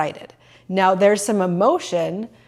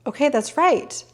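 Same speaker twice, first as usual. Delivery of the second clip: bright high "oh" of realizing; sudden realization; 7 semitones higher than usual. Retold or imitated. Realizing at the temple that she knew this, surprised. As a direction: let it dawn on you, lifted up high. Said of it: "And I was like".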